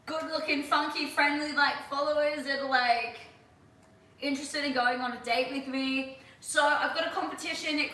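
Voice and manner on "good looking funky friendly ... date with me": giddy mock daydream about followers; laughing hopeful musing. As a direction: muse it giddy and half laughing. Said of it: "so I'm like".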